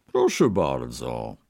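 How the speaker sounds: slow, low-pitched merchant's welcome; cheerful merchant. A narrator's reading. Merchant invites the Brahmin to sit, cheerfully. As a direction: draw it out low and jovially. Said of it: "odparł wesoło kupiec".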